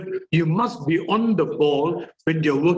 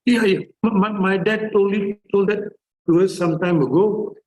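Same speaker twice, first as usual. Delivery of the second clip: lightly voiced son, a bit higher; sons answering casually; 3 semitones higher than usual. Sons replying to anyone who asks, lightly voiced brush-off. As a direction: lightly mimic a boy brushing it off. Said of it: "they will tell".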